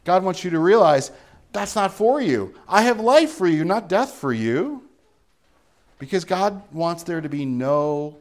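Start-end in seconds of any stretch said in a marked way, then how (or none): 1.5-4.8 a hint of God speaking, higher and louder, slowing at the end; lightly voiced divine promise; God's firm reassurance, higher and louder.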